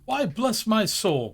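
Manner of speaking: high, slow amazed exclamation; lightly voiced jolly nephew; startled Fred. A narrator's reading. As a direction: gasp it out as a surprised nephew. Fred's startled cry in story.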